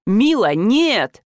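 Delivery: a mild mock shout after her. A narrator's reading. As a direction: call after her as she leaves. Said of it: "крикнул мне в спину".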